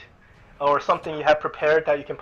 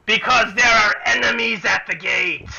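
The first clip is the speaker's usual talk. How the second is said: high, raised bugbear shout; urgent shout; 7 semitones higher, 4 dB louder than usual. Acted. Disguised bugbear answers the orc guard at the gate, high urgent shout.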